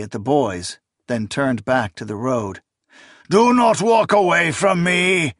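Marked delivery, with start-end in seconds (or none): 3.3-5.3 put-on high loud howling old man; howling old priest. A narrator's reading. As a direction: howl after her in rage. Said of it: "the old priest howled".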